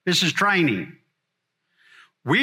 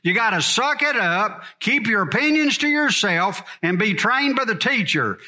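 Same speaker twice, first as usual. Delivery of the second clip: higher, forceful, punching "opinions" and "trained"; blunt barnyard talk; 4 semitones higher than usual. Shown as a demonstration. Farmer-preacher telling disciples straight, blunt and forceful. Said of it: "This is my barnyard talk".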